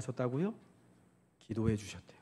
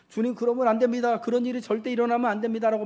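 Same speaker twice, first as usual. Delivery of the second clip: raised, louder protest; rebuking; 5 semitones higher, 4 dB louder than usual. Retold or imitated. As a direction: insist forcefully it must not happen. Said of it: "야단치면서".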